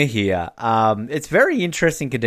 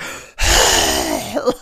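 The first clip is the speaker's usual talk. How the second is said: big exasperated mock sigh; exaggerated puff of breath; imitated sigh; 13 semitones lower than usual. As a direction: heave a wordless sigh in imitation. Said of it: "Tim's just like".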